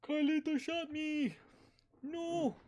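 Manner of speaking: imitating Liza. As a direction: ham up the friend's dramatic lines. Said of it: "she's like".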